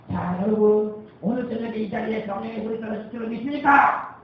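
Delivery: booming revival preacher calling to the crowd. Retold or imitated. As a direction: belt it out like a tent-meeting evangelist.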